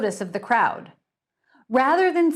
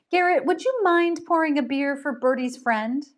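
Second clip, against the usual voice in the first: polite hostess; 6 semitones higher than usual. Acted. Gretchen asks politely.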